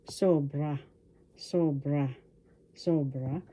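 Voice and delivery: sobra repeated with SO stressed; stress on first syllable. Shown as a demonstration. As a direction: say sobra, leaning on the opening syllable. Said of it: "The accent is in the first syllable".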